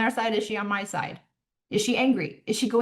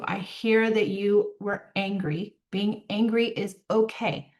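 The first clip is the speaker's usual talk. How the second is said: calm, slow validation. Shown as a demonstration. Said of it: "make the distinction out loud".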